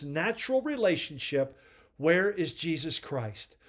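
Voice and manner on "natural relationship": natural said with deliberate weight; stress on natural. Shown as a demonstration. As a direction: lean on the word natural. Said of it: "I emphasize that word on purpose".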